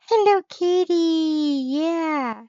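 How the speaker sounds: gasp, then a high, loud squeal; light up at spotting a favourite, voice shooting up; high-pitched happy outburst; real delight. Real, not acted. Spots Hello Kitty, reacts with delight.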